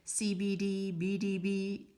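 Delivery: monotone robot reading letters. Pretend. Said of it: "sounding a bit like a robot going".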